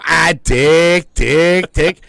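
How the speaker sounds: mock fake-fall yell. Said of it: "everybody go".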